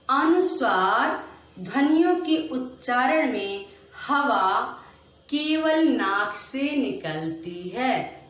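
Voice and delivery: slow chanted definition for the class; repeat-after-me recital. Shown as a demonstration. Teacher leading pupils in choral recital, slow. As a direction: recite it deliberately, phrase by phrase. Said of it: "मेरे साथ बोलिए".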